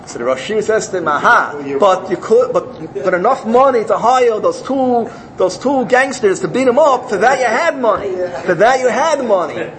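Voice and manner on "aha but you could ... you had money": gotcha rebuke. Acted. Rosh Yeshiva catches the farmer.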